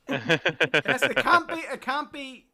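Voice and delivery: loud, slowed, through laughter; laughing. Real, not acted. Streamer laughing at Mac's demand, slow and loud. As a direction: stumble over the words while cracking up.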